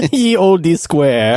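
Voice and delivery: slow, hammed-up olde English; shakespearean english. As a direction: stretch it like a town crier. Mock olde English joke.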